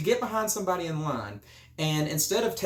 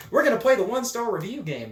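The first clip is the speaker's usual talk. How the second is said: hyped game-show announcement; 6 semitones higher, 4 dB louder, faster than usual. Acted.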